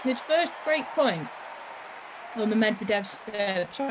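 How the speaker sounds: talking while chewing crisps; words around a mouthful of Pringles; mouth full. Real, not acted. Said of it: "I'm eating Pringles".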